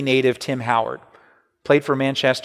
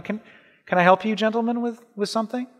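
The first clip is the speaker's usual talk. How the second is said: courteous but cool, keeping him at arm's length; a clerk's polite, detached offer of help; polite distant tone; 5 semitones higher, 4 dB quieter, faster than usual. Shown as a demonstration. Pastor reading the question as a polite but distant greeting. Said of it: "more casual, polite, but kind of distant tone".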